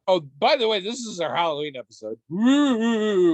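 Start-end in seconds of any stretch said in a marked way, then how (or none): 2.3-3.4 loud, high cheer. Real, not acted. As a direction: whoop it up. Halloween cheer.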